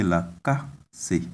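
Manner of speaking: la ka se with a tone on ka. Shown as a demonstration. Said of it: "there is a tone".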